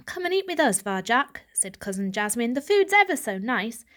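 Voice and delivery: a touch of a sweet coaxing voice; sweet cousin. Acted. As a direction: cousin coaxing him to eat. Jasmine coaxing Varjak.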